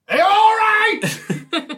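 high and slow with a laugh in it, badly faked comfort; high, slow mock comforting. Player comforting the screaming nurse, high slow mock tenderness. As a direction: fake soothing that cracks into a laugh. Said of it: "look her in the eye and say".

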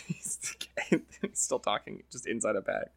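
soft unvoiced whisper; whispered aside. Real, not acted. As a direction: whisper it like a secret joke. Aside about man in bag.

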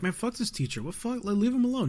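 lightly voiced annoyed student; mock student voice. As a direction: students grumbling at the teacher, half-hearted. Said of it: "the students are like".

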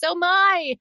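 surprised. Pretend. Mock gasp in show promo.

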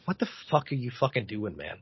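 low gruff cabbie, held back; a hint of a rough cabbie; angry cab driver. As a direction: cab driver snapping at him, lightly voiced. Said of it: "cab driver ... goes".

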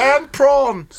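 high, loud interjection from the back; guy at the back. Acted. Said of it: "one guy at the back saying".

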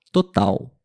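total said totau, the L as a U; final L as U. Shown as a demonstration. Teacher demonstrates total to learners, final L as U. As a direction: model total ending in U. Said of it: "a palavra total".

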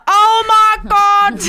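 high, loud, slow and laughing; overwhelmed relief. Retold or imitated. Stranger has the lost laptop, overwhelmed laughing relief. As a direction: gush with shaky relief. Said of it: "Like, crying on the phone".

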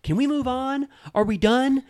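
hammed-up fake innocence; mock exasperated Tamra. Tamra trying to end the fight she started, high and whiny.

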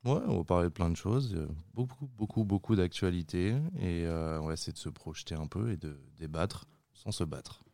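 breathy vintage purr, low and intimate; sensual voice. Real, not acted. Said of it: "tu vas arrêter de faire cette voix sensuelle".

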